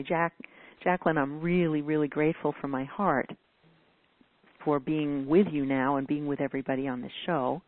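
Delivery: gently sincere, from the heart; heartfelt gratitude. Shown as a demonstration. Showing the host how felt thanks sound, heartfelt and sincere. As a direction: let the thanks resonate from your heart. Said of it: "you can hear the resonance".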